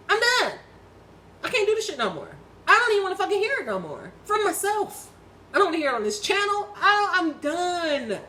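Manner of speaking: high, emphatic outburst; fed-up refusal. Real, not acted. Woman refusing to hear it from herself, fed up.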